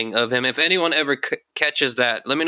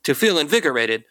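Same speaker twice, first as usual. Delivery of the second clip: higher, brassy vintage pitchman; old fifties salesman voice; 4 semitones higher than usual. Retold or imitated. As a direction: sell it like a fifties TV ad. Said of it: "old nineteen fifties salesman voice".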